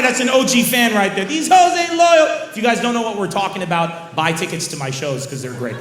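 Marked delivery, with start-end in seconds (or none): 1.2-2.5 much higher and louder, slow chant; hype quote. Pretend. Comic chanting a catchphrase back at a fan. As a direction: belt it like a rapper's hook.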